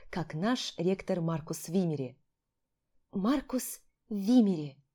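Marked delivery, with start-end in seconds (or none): 3.1-4.8 dreamy inner repeat. Acted. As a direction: savour the name slowly to yourself. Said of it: "мысленно повторила я".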